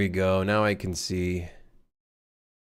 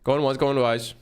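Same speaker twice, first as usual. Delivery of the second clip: auctioneer voice; 2 semitones higher, faster than usual. Pretend. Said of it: "Kinda sound like an auctioneer with that voice".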